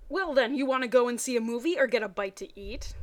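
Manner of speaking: reading the Pokemon fanfic dialogue with energy; voiced characters. Reading Brock and Misty's phone call in lively voices.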